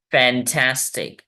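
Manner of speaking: फैंटास्टिक said a little slowly, three clear beats; careful teaching version of फैंटास्टिक; measured syllables. Shown as a demonstration. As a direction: lightly separate the syllables of फैंटास्टिक. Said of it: "तीन वेवल sounds होंगे".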